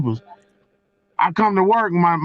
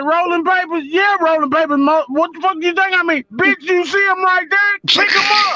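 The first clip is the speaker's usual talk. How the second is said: retelling being fed up with a dumb question; imitating himself; 9 semitones higher than usual. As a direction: play yourself fed up, pitched way up. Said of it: "look on my nightstand and said".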